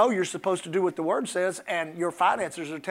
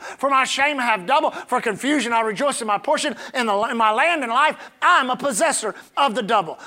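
recited confession. Shown as a demonstration. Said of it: "you'd stand up and say".

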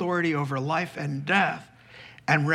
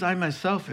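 I myself with weight on I, rising at the end; stress on I myself; 3 semitones higher than usual. Shown as a demonstration. The centurion insisting on his own authority, stress on I. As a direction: lean hard on I in I myself. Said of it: "it puts it in the emphatic".

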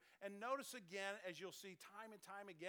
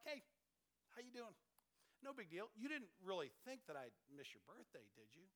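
calm; 4 dB quieter than usual. Retold or imitated. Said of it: "just as calm as can be".

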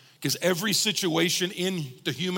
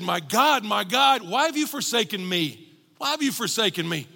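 raised, anguished cry in retelling; Jesus on the cross; 5 semitones higher, 3 dB louder than usual. Retold or imitated. Preacher voicing Christ forsaken on the cross, raised pleading cry. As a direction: lift it into a pleading question. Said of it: "when he's hanging on the cross".

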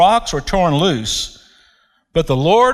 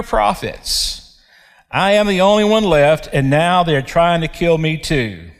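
self-pitying Elijah; 4 semitones higher than usual. Acted. Elijah repeats complaint.

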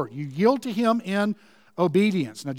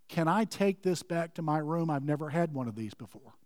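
uncomfortable; 7 dB quieter than usual. Retold or imitated. Agnes asking to take the cake home, softly uncomfortable. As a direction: imitate a stunned woman asking quietly. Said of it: "very uncomfortable".

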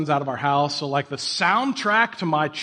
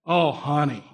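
pitying oh honey; 4 semitones lower, slower than usual. Retold or imitated. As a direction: lightly imitate a kind lady giving up on you. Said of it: "and said".

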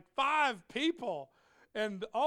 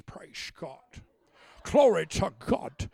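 pompous preacher voice; 2 semitones lower, 6 dB louder, slower than usual. Retold or imitated. Mocking how preachers talked at the pulpit, a pompous intoning. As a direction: parody the stiff churchy pulpit tone. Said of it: "we all talked like this".

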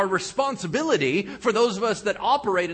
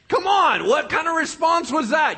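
loud, high exasperated come on; exasperated shout; 8 semitones higher, 6 dB louder than usual. Acted. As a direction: throw up your hands and shout at him. Exasperated outburst at friend.

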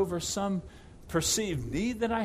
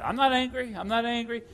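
louder, higher, pressure rising under the words; strained denial; 4 semitones higher, 3 dB louder than usual. Retold or imitated. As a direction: deny the anger while it boils up. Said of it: "I can feel this pressure building in my chest".

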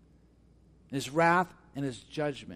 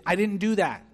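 indignant denial; 4 semitones higher, 6 dB louder than usual. Retold or imitated. Acted quarrel over a lie.

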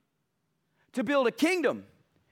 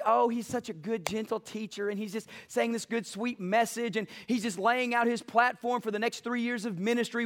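mock sweet admiration; 2 semitones lower, 3 dB quieter than usual. Preacher mimicking naive churchgoers, gushing softly. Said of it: "we just think".

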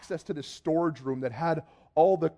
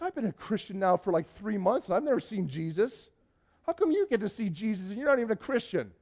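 indignant protest; 4 semitones higher than usual. Retold or imitated. Jealous protest to friend, retold.

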